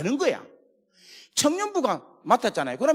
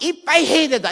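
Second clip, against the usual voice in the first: Gyeongsang dialect; 8 semitones higher, 9 dB louder than usual. Retold or imitated. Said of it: "막 사투리 하나씩 하는 거지".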